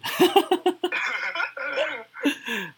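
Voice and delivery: long, high, loud cackling laugh; burst of laughter. Real, not acted. Host teasing a friend about bad luck, bursts out laughing. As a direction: crack up helplessly at your own joke.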